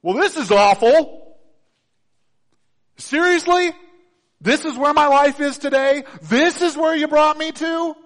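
high, loud mock whine; whiny complaining Israelites. Mocking the Israelites' complaint to Moses, high whiny voice. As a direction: whine like ungrateful people. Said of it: "they do what God's people always do".

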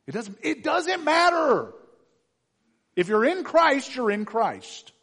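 high, loud preacher's cry; emphatic shout. Real, not acted. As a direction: shout it out as settled conviction. Preacher bursts into emphatic declaration.

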